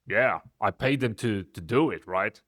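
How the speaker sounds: lightly voiced deep-voiced friend; hint of a deep boss voice; imitating deep voice. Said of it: "have this really deep voice".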